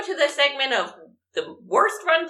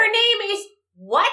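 her name is what, pitched up in disbelief; louder incredulous repeat; 6 semitones higher than usual. Real, not acted. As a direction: repeat it, more amazed. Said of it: "drag queen handle".

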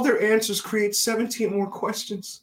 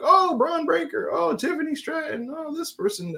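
mildly impressed; 10 semitones higher than usual. Retold or imitated. Fan recounting what he heard in his earpiece, mildly impressed. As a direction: list them with light, lilting wonder.

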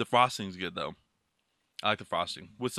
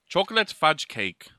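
mock Irish accent. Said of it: "from Ireland".

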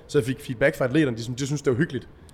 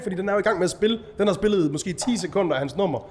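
normal talking voice

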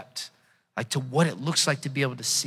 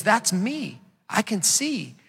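healed man, excited; 6 semitones higher, slower than usual. Acted. Healed man tells who he is.

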